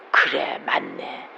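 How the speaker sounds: breathy hushed half-whisper, barely voiced; whispered realization. Preacher recalling reading scripture, realizing in a whisper. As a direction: murmur it to yourself as it dawns.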